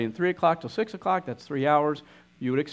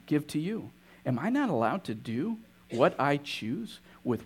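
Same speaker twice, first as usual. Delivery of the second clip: the master answers quietly and kindly; soft, gentle master; 4 dB quieter than usual. Acted.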